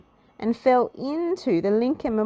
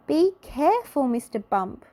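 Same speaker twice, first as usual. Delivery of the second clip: high, loud warning call; calling to Mister Bump near the edge; 8 semitones higher, 4 dB louder than usual. A narrator's reading. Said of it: "called Little Miss Fun".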